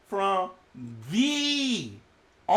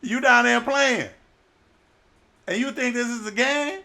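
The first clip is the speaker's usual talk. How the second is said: louder indignant rebuke; scolding sailor; 6 dB louder than usual. Acted. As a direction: chew him out.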